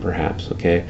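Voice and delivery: usual speaking voice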